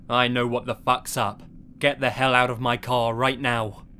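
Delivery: restrained mock yell meant to intimidate; intimidating yell. Driver ordering the suspected robber out, acted intimidating yell. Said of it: "with the most intimidating voice and mannerisms I could muster, I yelled".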